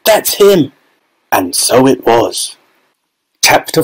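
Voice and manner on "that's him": high, eager crowd cry; excited shout. A narrator's reading. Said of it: "somebody shouted".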